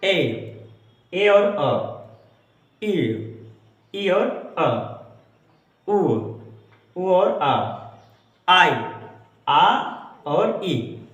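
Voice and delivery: each glide said alone, then split into its two vowels; slow paired demos of ए, ई, उ, आई; teacher sounding out each diphthong. Shown as a demonstration. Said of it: "ये भी".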